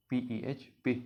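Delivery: पी, ई, एच as separate letters, then पे as one syllable; letter-by-letter pronunciation. Shown as a demonstration. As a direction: spell out पी ई एच, then say पे. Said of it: "उसको pronounce करेंगे".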